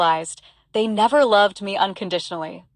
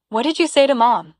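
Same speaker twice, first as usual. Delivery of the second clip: brother confronting her over Mom, mildly growled; 4 semitones higher than usual. Retold or imitated. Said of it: "he growled".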